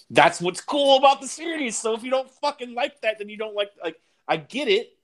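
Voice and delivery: getting emotional about it; worked up. Real, not acted. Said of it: "I'm getting a little emotional".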